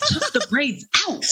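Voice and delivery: high, drawn-out obvious answer through a laugh; exasperated retort. Retold or imitated. Woman answering questions about her hair, mock exasperated. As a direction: spell it out slowly, laughing.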